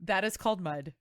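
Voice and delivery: dad stating the obvious, lightly done; father correcting his daughter, mildly deadpan; lightly voiced dad. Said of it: "He's like".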